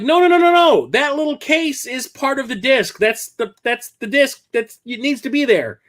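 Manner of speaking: high, urgent explaining; frantic correcting. Retold or imitated. Streamer frantically explaining the disc case to the clerk, high urgent voice. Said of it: "I'm like".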